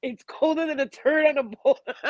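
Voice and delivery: playful Texan impression of dad's saying; Texan accent. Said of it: "in his Texan accent".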